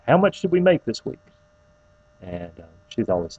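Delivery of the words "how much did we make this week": playful high teasing question. Retold or imitated. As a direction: ask it cheekily, voice jumping up. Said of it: "and I'd say".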